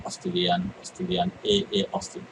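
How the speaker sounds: unvoiced murmur while scanning; searching the page under the breath; whispered muttering. Real, not acted. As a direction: mutter the word to yourself as you search.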